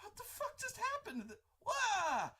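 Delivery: very high, shocked disbelief; stunned onlookers. Retold or imitated. Battlefield watching the Sith burn, high shocked cry. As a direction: gape at what just happened.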